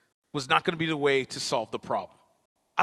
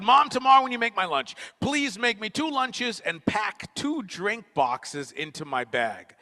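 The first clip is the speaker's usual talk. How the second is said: put-on kid asking mom; 7 semitones higher than usual. Retelling the real request.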